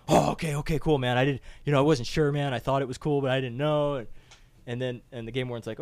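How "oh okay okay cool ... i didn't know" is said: louder, mildly panicky excuses; flustered Mike. Retold or imitated. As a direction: lightly mimic someone backpedalling, loudly. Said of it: "He's like".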